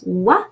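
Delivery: "wa" said as one quick "wah"; short open "wah"; French OI sound. Shown as a demonstration. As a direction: say "wa" as W gliding into open A. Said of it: "O I is pronounced wa".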